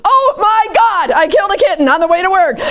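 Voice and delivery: high, dramatic oh my God; hammed-up wail about a terrible morning; dramatic venting. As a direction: gush out the disaster breathlessly. Venting after a bad morning.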